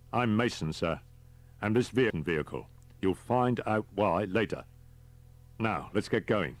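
a touch of the businesslike subordinate; lightly voiced driver. Driver introducing himself to his passenger, lightly voiced and businesslike.

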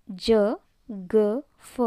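"ಜ, ಗ, ಫ" as short isolated juh, guh, fuh; "ಜ, ಗ, ಫ", one short consonant sound at a time; letter-sound demo. Shown as a demonstration. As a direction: sound out "ಜ, ಗ, ಫ" with pauses between. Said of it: "ಈ ಮೂರು ಅಕ್ಷರದಿಂದ ಪ್ರೊನೌನ್ಸ್ ಆಗ್ತವೆ".

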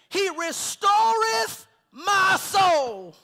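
slow, loud, drawn-out scripture; preaching. Acted. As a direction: intone the verse slowly with full force. Preacher intoning the psalm.

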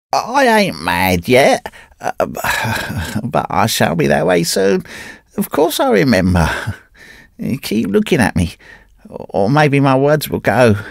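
put-on high, strained, half-mad old wanderer; a wrecked man clutching at his story; ragged Carnehan. A narrator's reading. Broken wanderer telling his old friend the tale, high and strained.

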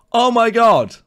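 high, loud exclamation of disbelief; astonished cry. Real, not acted. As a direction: cry out in sudden amazement. Discovers a shortcut.

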